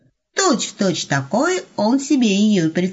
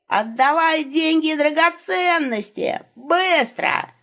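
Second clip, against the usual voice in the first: mock robber demand; 9 semitones higher, slower than usual. Wolf demands money in staging.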